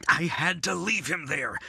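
urgent whispered confession; guilty husband whispering to his wife. Acted.

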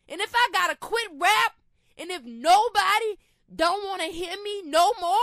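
testifying with fierce conviction; defiant refusal. Real, not acted. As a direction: punch each refusal with force. Defiant answer to imagined fans' urging.

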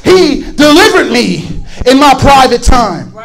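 driving, emphatic pulpit delivery; forceful testimony in a preacher's cadence; full-force preaching. Real, not acted. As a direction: preach it out with rising conviction.

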